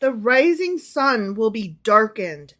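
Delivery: slow, deliberate verse; measured prophetic proclamation; dramatic scripture reading. Acted. Reads scripture aloud to co-host.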